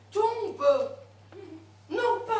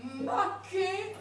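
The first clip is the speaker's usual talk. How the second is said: laughing, loud fake Italian with maquet everywhere; clumsy fake Italian accent, half laughing; mock Italian accent; 5 semitones higher, 5 dB louder than usual. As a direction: ham up an Italian accent through giggles. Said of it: "tu mets maquet partout".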